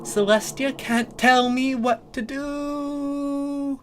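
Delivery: high, slow, drawn-out bratty princess; slow defiant Luna. Acted. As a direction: stretch it out, taunting. Luna defies her sister.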